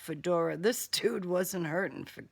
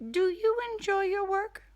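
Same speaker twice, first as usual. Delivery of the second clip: higher, silky villain voice; 12 semitones higher than usual. Acted. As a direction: toy with her like a playful killer. Killer character voice, audiobook.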